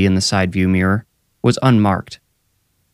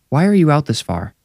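higher-pitched questioning woman; Tara challenging; 8 semitones higher than usual. A narrator's reading. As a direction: challenge him in a raised voice pitch. Narrator voices Tara challenging officer.

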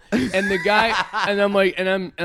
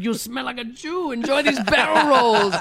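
higher-pitched caricature, timbre put on; mock villain instructor; 5 semitones higher than usual. Instructor to student mid-air, mock villain taunt. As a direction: play the hateful instructor, hammed up. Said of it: "Nazi scumbag".

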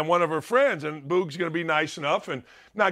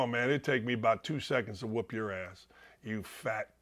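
muttered aside; 10 semitones lower, 9 dB quieter than usual. Retold or imitated. Muttered threat to the president.

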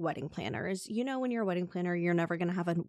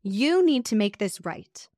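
slow, slightly louder demand; a hint of an angry renter; mock yelling at the host; mild retold yell; 3 semitones higher, 4 dB louder, slower than usual. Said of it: "starts yelling".

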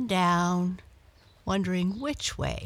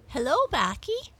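lightly higher friendly cat voice; Muffins the cat; 9 semitones higher than usual. A narrator's reading. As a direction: greet her brightly as a cat. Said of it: "meowed Muffins".

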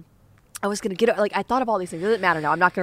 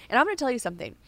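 usual speaking voice

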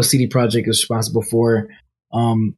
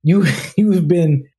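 shaky ransom note reading; 2 semitones higher than usual. Acted. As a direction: read it like a hammy villain letter.

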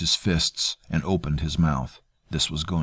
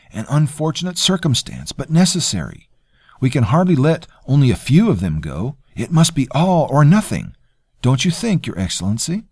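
lightly voiced oily courtier, higher; a hint of a smug, polite cousin; smooth courtier; 9 semitones higher, 6 dB louder than usual. Terrell justifying.

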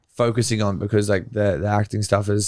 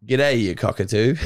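Australian accent. Shown as a demonstration. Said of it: "give us a sentence".

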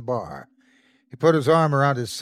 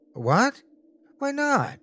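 put-on puzzled little boy; slower than usual. A narrator's reading. Boy protesting father.

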